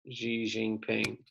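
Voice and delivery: "Xi Jinping" softly and slowly, zhee-zhing-ping; demonstrated pronunciation. Shown as a demonstration. Teacher repeats the leader's name for students, "Xi Jinping" pronounced slowly as zhee-zhing-ping. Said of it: "that's how you pronounce that".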